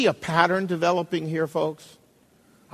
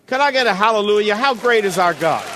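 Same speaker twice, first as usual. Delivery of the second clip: louder, fast preacher's call-out; rallying call; 2 semitones higher, 4 dB louder than usual. Acted. Preacher calling the congregation to answer, loud. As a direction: rouse the congregation to answer back.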